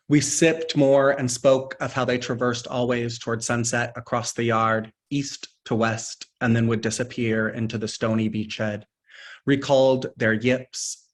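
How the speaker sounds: deliberate phrases set apart by pauses; poetry reading. Acted. Poet reading a nocturne about lost foxes, deliberate recital. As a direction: recite it line by line, weighting key words.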